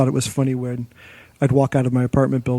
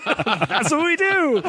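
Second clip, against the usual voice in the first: boss's flat order; 13 semitones higher, much slower than usual. Retold or imitated. Boss voiced in retold story.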